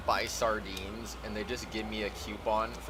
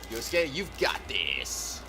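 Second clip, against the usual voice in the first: encouraging hero voice; slower than usual. Acted. Reading game text as character.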